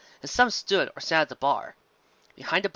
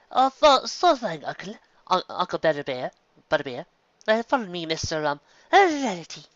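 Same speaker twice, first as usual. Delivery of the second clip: put-on much higher, bright young mare; eager niece answering; Songbreeze voice; 4 semitones higher than usual. Songbreeze answers her uncle's call.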